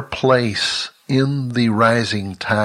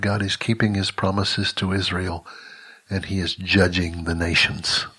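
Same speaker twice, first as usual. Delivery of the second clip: faint, frail and soft; barely voiced, weak and quiet; 2 semitones lower, 6 dB quieter than usual. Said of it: "in a very weak voice".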